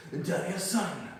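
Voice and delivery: mock Asian-accented Spanish, drawn out and rising high; Miyagi's Asian accent. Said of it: "gave Mister Miyagi an Asian accent".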